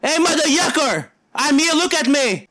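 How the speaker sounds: loud, high call for attention; yelling. Real, not acted. Gamer shouting at the intruder to look, loud yell. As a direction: shout to make him notice you. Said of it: "I need to scream at".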